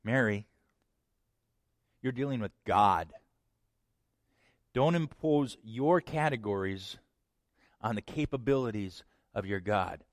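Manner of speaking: calm, steady reassurance; gentle but firm. Acted. Angel calmly correcting Mary, gentle but firm. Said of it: "very gently but very firmly says".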